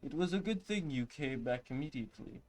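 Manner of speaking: a hint of an old healer; lightly voiced wise old man. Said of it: "I was trying to give her, like, an old man voice".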